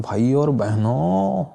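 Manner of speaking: slow, lightly imitated Modi rally cadence, बहनों drawn out; a hint of Modi addressing a crowd; Modi's cadence. Teacher imitating Modi's speech rhythm for students, lightly mock rally cadence. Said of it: "Modi जी कैसे बोलते हैं".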